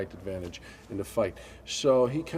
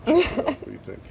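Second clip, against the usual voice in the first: Sylvester Stallone; 3 semitones lower than usual. Retold or imitated. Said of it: "a gentleman named Sylvester Stallone".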